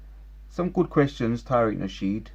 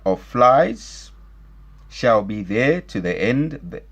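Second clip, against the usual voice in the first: measured, emphatic Bible reading; scripture reading; 4 dB louder than usual. Acted. Commentator reading Exodus to listeners, solemn scripture reading. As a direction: proclaim the verse phrase by phrase.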